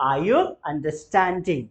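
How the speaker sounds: very slow, word by word; slow model sentence. Shown as a demonstration. Teacher models the question slowly for students. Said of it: "बोलेंगे जरा".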